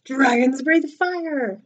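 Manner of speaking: slow, loud, insistent scolding; stern father laying down the rule; father's shout. Acted. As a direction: raise the voice and stretch each word. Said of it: "shouted his father".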